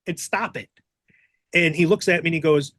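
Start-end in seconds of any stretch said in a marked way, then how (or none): 0.1-0.7 laughing. Retold or imitated. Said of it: "And I finally tell him".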